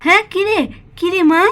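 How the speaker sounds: a hint of a caring mother hiding tears; lightly voiced gentle mother. Mala, to her daughter Pakhi, tenderly hiding her tears. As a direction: soothe the child, brush off the crying.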